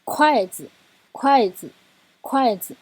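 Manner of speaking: 筷子 with falling 筷, light 子; neutral tone demo. Shown as a demonstration. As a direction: say 筷子, 子 short and unstressed. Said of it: "四声跟轻声的组合".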